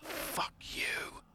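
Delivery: hissed whisper through gritted teeth; reanimated skull hissing at the questioner. Acted. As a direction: spit it out in a whispered hiss. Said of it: "through gritted teeth go".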